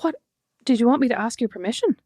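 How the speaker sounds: retold cheeky comeback, mildly baffled; a touch of insubordinate disbelief; bratty but baffled. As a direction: answer the boss like a puzzled brat. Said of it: "like a brat, but also baffled".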